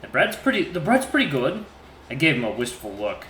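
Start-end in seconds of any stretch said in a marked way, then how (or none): 0.0-1.7 put-on higher, halting nervous boyfriend; stammering awkward suitor. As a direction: stumble over the words shyly. Voices awkward Cecil.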